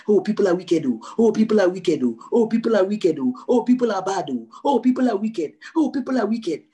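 loud, quick sing-song mock lament. Preacher mocking the congregation's gloomy mindset, loud sing-song.

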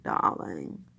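very low "darling" in Mid-Atlantic style; old Hollywood star's Mid-Atlantic drop in pitch; Mid-Atlantic accent. Acted. Wondering about Katharine Hepburn, mock Mid-Atlantic accent. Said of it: "what Katharine Hepburn really sounded like".

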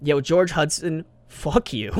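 Yo, George Hudson called out slowly, jokingly; mock call-out. Teasing the inventor, mock call-out. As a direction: call him out in playful mock anger. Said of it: "I'm just kidding".

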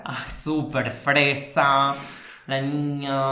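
put-on slow, drawn-out posh girl; fresa girl voice. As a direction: tease her as a prissy girl. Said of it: "yo soy fresa".

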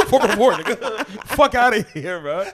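laughing while talking. Real, not acted.

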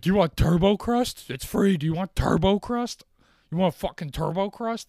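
high, loud hammed-up upsell voice; mock the app like an over-eager cashier; mock pushy salesman. Mocking the pizza app's upsell.

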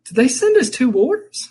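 high mock wife voice; wife's voice. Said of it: "She's like".

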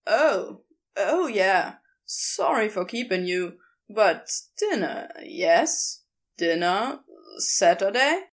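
casual, a touch sly; lightly voiced Crowley.

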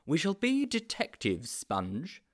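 mildly excited declaration; exclaiming. A narrator's reading. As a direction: proclaim a grand plan to a friend. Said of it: "exclaimed Mildew".

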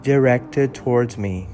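measured English audiobook reading, steady and clear; story narration. Acted. Reading Frankenstein to his followers, calm storytelling narration. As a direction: read the novel aloud like an audiobook.

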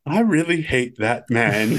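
slow, grumbling mutter; Hammond quote. Retold or imitated. Friend quoting Hammond watching the screen, slow grumble. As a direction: sulk about him slowly. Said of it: "he goes".

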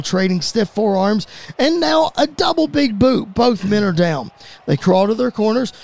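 lively wrestling commentary with sudden lifts; play-by-play. Acted. Commentator calling the tail end of the tag match, play-by-play. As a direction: build towards the hot tag.

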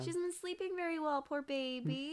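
high-pitched doting concern; quick, high, fussing sympathy; cooing sympathy. Real, not acted. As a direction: coo over a poor tired darling. Cooing over a tired character.

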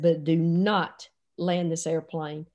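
low, slow, measured command; emphatic order. Retold or imitated. Coach to pilots, slowly emphatic. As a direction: spell it out slowly and firmly.

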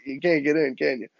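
cheeky, laughing tease; comical taunt. Retold or imitated. Boy teasing dad stuck in the door, laughing taunt. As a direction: goad him playfully, breaking into laughter. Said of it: "I'm being kinda, like, comical".

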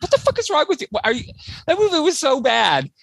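yelling at a friend who loved the film, in mock outrage; retold outrage.

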